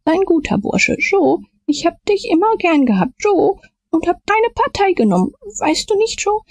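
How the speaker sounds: very high, desperate begging; terrified pleading. A narrator's reading. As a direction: beg on your knees, high and frantic. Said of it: "fiel auf die Knie ... hob beschwörend die Hände". (hoch, verzweifelt flehend)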